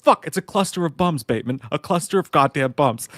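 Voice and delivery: ranting cabbie yell. Retold or imitated. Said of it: "He's like".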